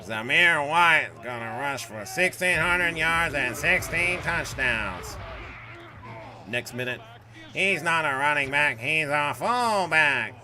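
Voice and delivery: lightly mock a confident fantasy analyst; a hint of an overconfident pundit, dragging the words; Dustin impression. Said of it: "Does he talk like that".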